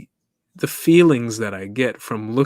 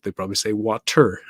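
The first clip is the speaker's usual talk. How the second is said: "water" said the British way, t crisp and r dropped; a light British "water"; British accent. Shown as a demonstration. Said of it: "if you're British".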